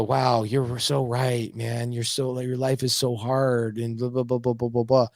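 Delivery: slow, fake-sympathetic drone trailing into blah blah; mock sympathy. A friend hearing complaints, slow mock pity. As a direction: pretend to care, then lose interest.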